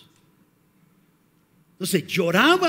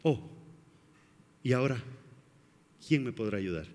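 mock victim; 9 semitones lower, 8 dB quieter, faster than usual. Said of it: "Y comenzamos como víctimas".

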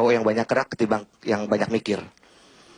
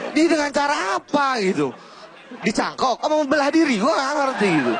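mock bewilderment; 11 semitones higher than usual.

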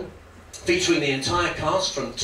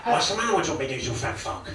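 a hint of a tough New York cabbie; menacing mock gangster muttering; lightly voiced brooding De Niro; De Niro impression. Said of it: "Robert De Niro has just been cast".

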